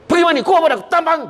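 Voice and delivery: put-on high, loud, fast scolding of the child; scolding mother. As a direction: yell at the kid to bathe. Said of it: "Dia marah anak macam tu". (ibu memarahi anak, suara tinggi dan laju)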